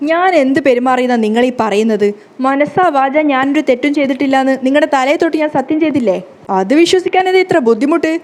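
loud, indignant protest, voice climbing; angry outburst. Acted. Wife indignantly protesting to husband in staged fight, loud angry outburst. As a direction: shout her innocence at him, offended.

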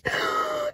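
sharp, very high squeaky gasp; a bird-like gasp of shock. Real, not acted. Fan spots the name on her photo card, high squeaky gasp. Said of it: "That probably just sounded like a bird".

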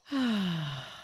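long falling sigh; frustrated sigh. Real, not acted. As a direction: let out a drawn-out, voiced sigh. Frustrated after the building mistake.

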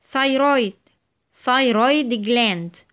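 "thyroid" opening on breathed th; voiceless TH. Shown as a demonstration. Teacher gives examples of the rule, "thyroid" with voiceless th. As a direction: model "thyroid" carefully with voiceless th. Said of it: "بتنطق في الحالة دي ث".

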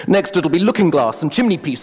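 a hint of a haughty professor; pompous wolf. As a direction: play the wolf as a self-important academic. The wolf mocks.

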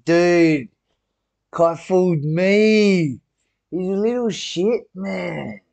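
high, loud, drawn-out exclamation; indignant outburst. Real, not acted. Viewer reacting to being fooled by Kai, indignant outburst.

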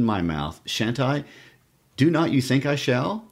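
lightly voiced fussy spinster, lilting up at times; spinster accent. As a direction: read it with a hint of a spinster accent. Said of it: "use your best Spencer accent".

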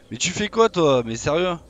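lâche-le, stupéfait; surprise indignée. Real, not acted. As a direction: question plus haute et forte. Surpris par le dino. (surprise indignée)

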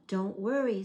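loud reassuring call upward. Acted. Panda calling up to the polar bear on the ladder, loud. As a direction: shout it up to a friend on the ladder. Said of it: "the panda called".

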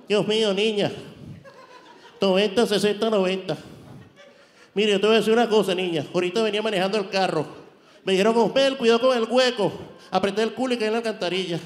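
a hint of a fussy beauty-pageant boss; Osmel Sousa. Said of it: "Osmel Sousa".

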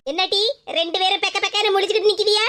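a stern mother catching the two of them out; low, scolding mother's voice. Acted.

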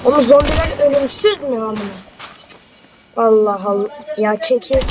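loud exasperated shouting; frustrated yelling. Real, not acted. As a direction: yell in frustration at the zombies. Frantic fighting zombies.

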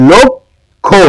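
লক্ষ্য split in two, "lok... kho"; pronunciation demo. Shown as a demonstration. Teacher giving an example of the rule, লক্ষ্য syllable by syllable. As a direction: stretch লক্ষ্য with a closed "o" and a pause mid-word. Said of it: "অ এর উচ্চারণটা ওকারের মতো".

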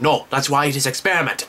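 lightly put-on Asian kid accent; imitated Asian accent. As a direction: mimic the kid's Asian-accented English. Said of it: "the kid actually talks like that".

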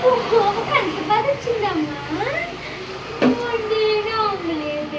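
slow, drawn-out mock whimper; mock crying. Mother slowly mimicking her crying daughter, mock whimper. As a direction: tease her by playing the crybaby.

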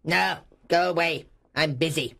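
high, hard dismissal; irritated miser. A narrator's reading. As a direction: send them off crossly. Scrooge dismisses his nephew.

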